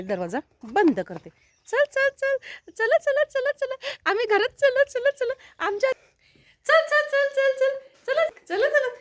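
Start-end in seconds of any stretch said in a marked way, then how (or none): 1.7-5.9 very high sing-out to pets; coaxing pet call. Real, not acted. Coaxing pets to come inside. 6.6-8.9 very high sing-out to pets; coaxing pet call. Real, not acted. Coaxing pets to come inside.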